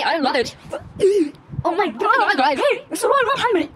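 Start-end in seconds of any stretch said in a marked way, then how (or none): 2.6-3.7 high, very slow announcer drawl; slow high hype call; hyped announcement. Real, not acted. Hyping the outfit reveal.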